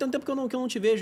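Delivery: high, eager, friendly buddy voice.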